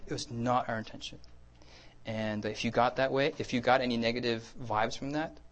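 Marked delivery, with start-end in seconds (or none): 0.1-1.2 soft, earnest assurance; sincere. Retold or imitated. Preacher assuring John about his intention, softly sincere. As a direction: gently insist on it, softly. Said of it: "And I was sincere".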